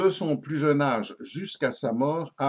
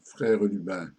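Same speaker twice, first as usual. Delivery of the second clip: satirical ballad recitation. Acted. Récite une ballade satirique à refrain. (ballade satirique déclamée, refrain plus grave)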